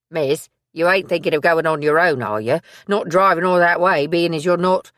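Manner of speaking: he fears she's too upset to drive; Billy the worried assistant. Acted. Billy to Maisie, anxious protest.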